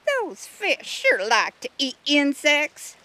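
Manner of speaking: put-on high, loud, slow southern accent; southern drawl. A narrator's reading. River snail chiming in on the fish, southern drawl. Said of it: "drawled another voice with a distinct southern accent".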